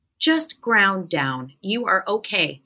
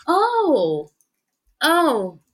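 flustered refusal; 5 semitones higher, slower than usual. Retold or imitated. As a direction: dither between no and yes. Her flustered reply retold.

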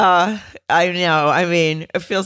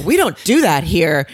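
mildly indignant retold rebuke, louder; mock mad producer; 2 semitones higher, 5 dB louder than usual. Producer objecting to gossip on air, mildly mad. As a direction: scold her as the producer, lightly acted. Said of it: "it's like he was mad".

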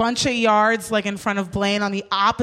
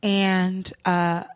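lower, softer measured lecture; calm speech; 5 semitones lower, 3 dB quieter than usual. Retold or imitated. Speaking to the rude cab driver, calm earnest speech. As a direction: deliver it gently like an earnest talk show lesson. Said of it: "very chill words".

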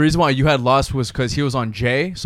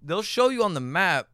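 casual, direct sponsor read; podcast ad read; 8 dB quieter than usual. Real, not acted. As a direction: sell it to loyal listeners in an easy host read. Podcast host reads sponsor ad.

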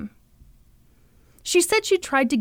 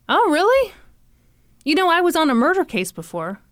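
higher voice, lightly acting out his interest; imitated Jason, casually impressed; 5 semitones higher than usual. Jason answers her over dinner about convictions, lightly imitated interest. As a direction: perk up high on the reply, then ease down. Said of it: "Jason was like".

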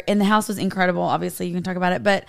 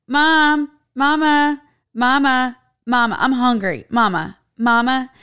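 put-on high, loud little kid whining for mom; whiny kid voice; 4 semitones higher, 4 dB louder, slower than usual. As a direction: nag like a hungry toddler. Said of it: "But here".

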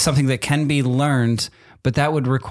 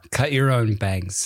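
slow over-enunciated; 3 semitones lower, slower than usual. Shown as a demonstration. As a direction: mouth each word slowly for lip reading. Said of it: "lip reading game".

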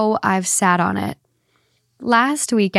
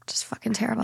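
whispering; 9 dB quieter, faster than usual. Real, not acted. Griping about noisy upstairs neighbours.

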